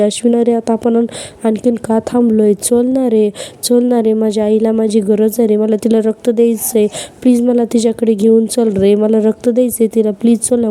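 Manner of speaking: a lightly played whimper of false pleading; whiny fake pleading. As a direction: ham up a fake plea to be taken along. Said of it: "गायावाया करायला लागते".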